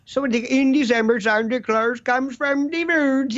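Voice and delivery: put-on a touch of sing-song Swedish-Italian accent; Andrew Cuomo accent. Governor rambling about Santa Claus, lilting mock Swedish accent. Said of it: "It's Swedish".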